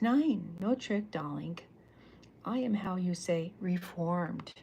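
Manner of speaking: loud, hammed-up foreign diva voice with darling; exaggerated European accent; mock foreign accent. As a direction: play Cece as a reformed foreign villainess. Villain Cece voiced, faux-foreign phrasing.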